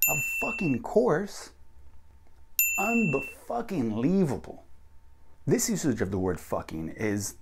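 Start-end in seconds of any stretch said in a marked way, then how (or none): 0.1-1.5 high, drawn-out "fucking course"; emphatic. Shown as a demonstration. Teacher demonstrates stuffed-in swearing, high emphatic "course". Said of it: "make it more emphatic". 2.8-4.6 high, slow "Unbe-fucking-lievable"; emphatic. Shown as a demonstration. Teacher shows the word split, slow emphatic "Unbe-fucking-lievable". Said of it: "make it more emphatic".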